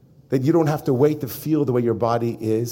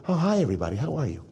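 mock public cheer; 6 dB quieter, much faster than usual. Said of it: "'cause I'm, I'm in an interview".

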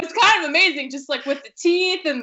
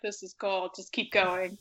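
laid-back producer; 5 semitones lower, 11 dB quieter than usual. Retold or imitated. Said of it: "was like".

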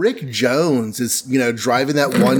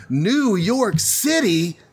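higher, slower, stunned question; shocked disbelief; 7 semitones higher, slower than usual. Retold or imitated. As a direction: control room can't believe it's New York City. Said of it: "missile control is like".

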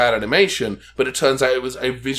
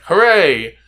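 brief raised, louder hooray; a little burst of pretend celebration; mock cheer; 4 semitones higher, 6 dB louder than usual. Shown as a demonstration. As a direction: give a demonstration cheer, higher and punchy. Translating a game's cheer phrase.

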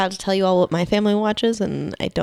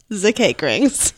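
German accent; much slower than usual. Shown as a demonstration. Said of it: "pronounce it in the German accent".

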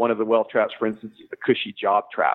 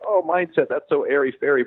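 dismissive; 4 semitones higher than usual. Retold or imitated. Imitating dismissive people.

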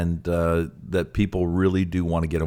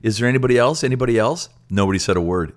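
higher, teasing plea for more; coaxing appeal; 5 semitones higher, much faster than usual. Retold or imitated. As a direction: fish for more pledges. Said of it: "he goes".

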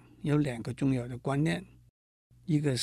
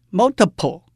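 multiple with mul stressed, loud and higher; multiple, weight on mul; heavy-light-light stress; 5 semitones higher, 8 dB louder than usual. Shown as a demonstration. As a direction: hit the first syllable of multiple hard. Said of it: "是重轻轻的组合".

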